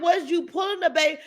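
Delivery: high, fast, half-shouted disbelief; incredulous outburst. Retold or imitated. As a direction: fire it off like you can't believe it. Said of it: "but I'm like".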